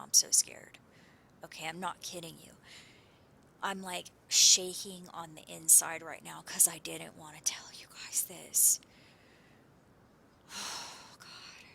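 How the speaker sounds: trembling whispered fear; scared, near tears. Real, not acted. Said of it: "I feel like I'm gonna start crying right now".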